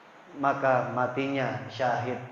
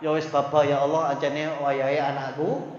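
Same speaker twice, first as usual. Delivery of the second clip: backpedaling parent. Retold or imitated. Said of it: "gak konsisten".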